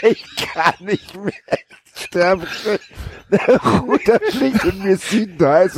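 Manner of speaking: high, slow words through laughter; laughing while talking. Real, not acted. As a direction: giggle through the line. Laughing through the mock line.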